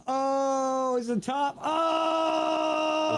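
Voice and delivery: high excited yelps. Real, not acted. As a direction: squeal with real excitement. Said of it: "You are really excited about this".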